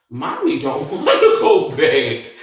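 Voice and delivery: laughing through the words, slowed down. Real, not acted. To the audience, laughing about not wanting to go back. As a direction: giggle it out slowly. Laughing retelling own reluctance.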